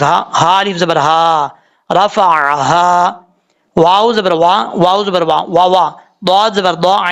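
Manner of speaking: each letter and vowel named slowly; spelling out. Shown as a demonstration. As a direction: spell it out syllable by syllable. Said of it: "ہجے کر لیتے ہیں ہم". (حرف حرف ہجے کر کے)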